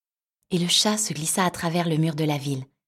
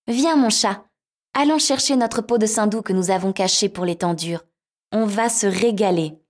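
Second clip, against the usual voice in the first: high, bright little mouse; squeaky mouse voice; 4 semitones higher, 5 dB louder than usual. Acted. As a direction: voice the small mouse, pitched up.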